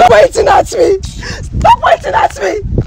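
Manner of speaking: high-pitched, drawn-out warning; indignant, stretched-out demand; angry protest. Acted. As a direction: tell them off, pitch climbing sharply. Heated quarrel, warding off pointing finger.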